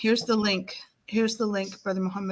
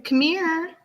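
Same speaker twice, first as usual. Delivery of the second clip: parrot voice; 8 semitones higher than usual. Retold or imitated. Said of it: "he's saying".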